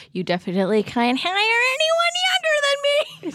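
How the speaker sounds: very high squeaky whining mock; squeaky falsetto mockery. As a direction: push it up into falsetto. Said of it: "her voice gets progressively higher".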